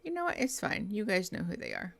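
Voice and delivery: talking with a numb mouth. Real, not acted. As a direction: speak like after the dentist. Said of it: "I sound like I just got a dental procedure done".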